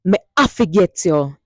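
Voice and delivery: Patois "Me I forget you" with stress on "I"; Jamaican Patois. Shown as a demonstration. Teacher demonstrating the bonus line for all the lovers. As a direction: say it with a lover's promise. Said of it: "Hear that?".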